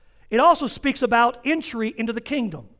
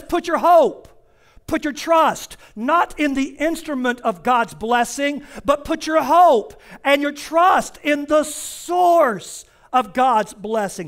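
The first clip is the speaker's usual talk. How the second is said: emphatic preaching; slower than usual. Acted. Preacher urging the congregation to trust God, emphatic. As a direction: lean into each word of the charge.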